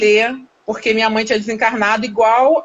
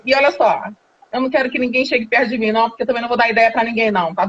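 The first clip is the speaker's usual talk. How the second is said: rude brush-off; faster than usual. Retold or imitated. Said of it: "bastante ignorante".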